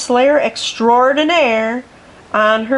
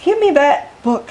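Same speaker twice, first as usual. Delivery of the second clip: roared; 5 semitones higher than usual. A narrator's reading. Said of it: "roared Miss Scales".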